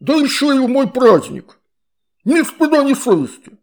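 high, loud outraged water-spirit voice; indignant shout. A narrator's reading. Water spirit indignant about Astrid's mother, high and loud. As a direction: cry out in scandalized outrage.

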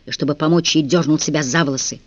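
ordinary delivery

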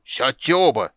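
dwarf bellowing at both to sit, loud; thundering dwarf. Acted. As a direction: roar it down the bench. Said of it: "загремел гном".

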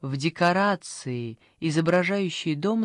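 ordinary delivery

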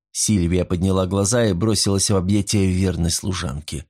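ordinary delivery

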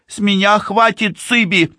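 put-on high, exasperated girl's voice; fed-up young woman, pitched high; man doing a woman's voice. A narrator's reading. Livi snaps at her sister.

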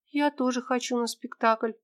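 lightly voiced young girl asking her friend; little girl Tera. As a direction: play a small lost girl, hopeful.

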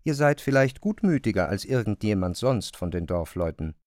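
offhand remark, tossed off lightly; casual. Acted. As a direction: say it in passing, not weighing it. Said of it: "begnügte sich mit einem beiläufigen".

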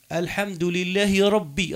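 slow recital linking لله into ربي; joined with kasra. Shown as a demonstration. Teacher showing the grammatical link, slow joined recitation of لله ربي. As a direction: sound the final i of لله and ربي. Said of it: "ربي هذيك على تكسرت".

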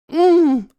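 high, loud hum of pain; pained moan. Acted. Captive is burned by a hot finger, loud pained moan. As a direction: wince and moan through closed lips at the burn. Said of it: "морщусь от боли".

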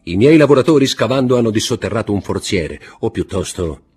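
ominous theatrical declaration; dramatic Count. Acted. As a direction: reveal the dark secret to the guests. Count telling the buried chest.

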